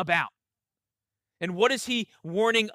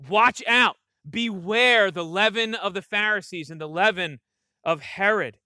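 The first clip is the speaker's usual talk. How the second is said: louder, urgent warning with punch on out; emphatic warning; 3 dB louder than usual. Shown as a demonstration. Pastor voices Jesus warning his disciples, urgent and louder. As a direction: sound the alarm. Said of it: "emphatically warning his disciples with maximum urgency".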